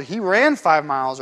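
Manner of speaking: he RAN five miles; stress on ran. Shown as a demonstration. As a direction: hit the word "ran". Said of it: "well, is it".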